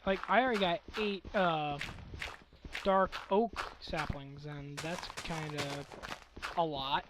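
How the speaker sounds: hoarse, scratchy throat; talking through a scratchy sore throat. Real, not acted. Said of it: "the man with the scratchy voice".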